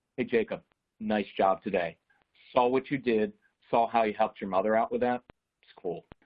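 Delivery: understated, easygoing, low-key, casual tone. Showing how he sounds when he gives praise: low-key praise. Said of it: "I would go very low key. ... So when I praise, it sounds like this".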